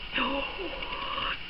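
very soft, long gasp; sharp surprise drawn in on breath; real gasp of delight; amazed gasp. Real, not acted. Seeing the next gift.

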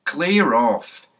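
barked order to clear off; gruff order. Acted. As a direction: shoo the kids off like a cross policeman. Policeman shoos the children away.

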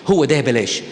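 a hint of a dithering lovesick girl; lightly voiced girl torn between yes and no; mock lovesick dithering. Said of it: "وبقول".

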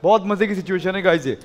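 usual speaking voice

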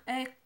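Ek as one short crisp syllable; Mam word, clearly modelled. Shown as a demonstration. Teacher models the Mam word for black, clearly. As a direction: model Ek for the class to repeat. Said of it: "Vamos con el siguiente".

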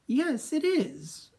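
slow, high, silky and prim. Acted. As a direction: preen like a fussy monster. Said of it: "he said in a high, silky voice".

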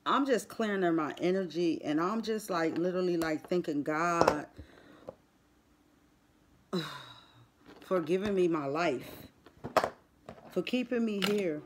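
hushed and subdued. Real, not acted. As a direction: speak low, almost praying. Quiet prayerful thanks after loss.

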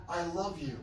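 a soft, tender "I love you"; softly reassuring "I love you". Shown as a demonstration. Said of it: "followed up with".

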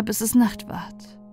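usual speaking voice

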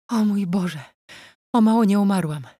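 put-on mild panting old noblewoman; panting old lady. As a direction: gasp out relief after the scare. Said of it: "dyszała stara szlachcianka".

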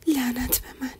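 understated self-reproach under the breath; angry muttering. A narrator's reading. Mother angry at her own foolishness, muttering. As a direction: mutter it to yourself, mildly cross. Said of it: "عصبانی شد و زیر لب گفت".

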